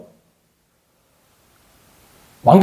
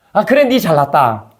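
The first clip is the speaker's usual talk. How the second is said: sarcastic; slower than usual. Shown as a demonstration. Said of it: "비꼬지 말고".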